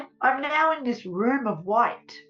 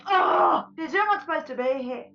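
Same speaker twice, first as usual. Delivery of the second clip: frustrated; 2 semitones higher than usual. Retold or imitated. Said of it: "She's so frustrated with me".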